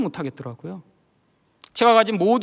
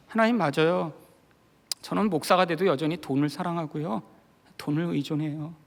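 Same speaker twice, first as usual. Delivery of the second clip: subdued, softer confession; retold prayer; 3 semitones lower, 6 dB quieter than usual. Pastor confessing love of money, subdued prayer. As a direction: lower your voice and admit it to God. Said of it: "그때 기도하기 시작했습니다".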